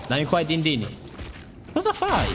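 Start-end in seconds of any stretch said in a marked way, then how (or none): 1.7-2.3 very high startled cosa fai. Real, not acted. Gamer jumped by an enemy, very high startled question. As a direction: jerk back in surprise.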